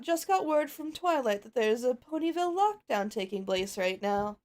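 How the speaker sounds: lightly voiced elegant pony, rising to a cheer; a hint of a posh pony aunt; Rarity cheering the fillies; Rarity to children.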